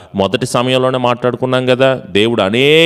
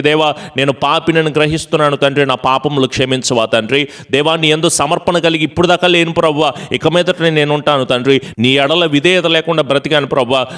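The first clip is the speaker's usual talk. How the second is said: pleading prayer; 3 semitones higher than usual. Shown as a demonstration. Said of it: "అని దేవుని దగ్గర ప్రాకులాడు, ప్రాధేయపడు".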